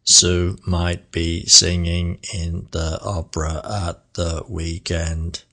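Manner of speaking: slow, soft, flat robot voice. Shown as a demonstration. Teacher demonstrating a robotic sentence. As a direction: drone each word evenly like a machine.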